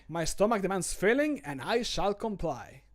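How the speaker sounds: flamboyant. Acted. Streamer wants the voice line a bit flamboyant, showy read. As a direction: flourish the line with flair. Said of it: "I like it being a bit flamboyant".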